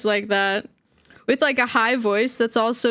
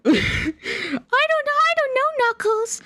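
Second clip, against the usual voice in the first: much higher, very slow squeaky Amy dub voice; bad fan-dub Amy; 12 semitones higher, slower than usual. Amy answering Knuckles in a fan dub, high and slow. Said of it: "like one of those dubs".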